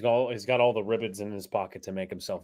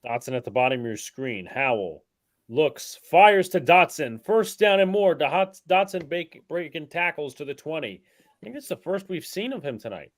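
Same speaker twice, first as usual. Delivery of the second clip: play-by-play; 5 semitones higher, 6 dB louder than usual. Acted. Play-by-play over the stream.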